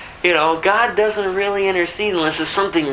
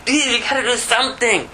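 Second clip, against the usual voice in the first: higher, mildly urgent plea; imitating a desperate prayer, half-hearted; retold plea to God; 7 semitones higher than usual. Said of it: "And I'm crying out to God".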